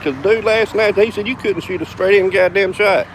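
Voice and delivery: mildly baffled challenger, pitched high; incredulous retold accusation. Retold player accuses him of hustling.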